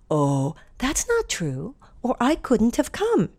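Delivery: a hint of a kindly fairy godmother, slow. Fairy godmother answering Cinderella, lightly voiced and slow. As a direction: gently correct her, lightly voiced.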